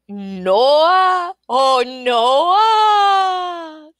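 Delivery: long, high, loud sigh of refusal; sighing wail. A narrator's reading. Little man refusing the queen's guess, sighing loudly. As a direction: draw it out like a huge sigh. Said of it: "Sounded like sighing".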